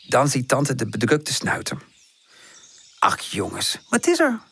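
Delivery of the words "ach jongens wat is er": concerned. A narrator's reading. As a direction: ask with gentle concern. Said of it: "vraagt ze bezorgd". (bezorgd vragen)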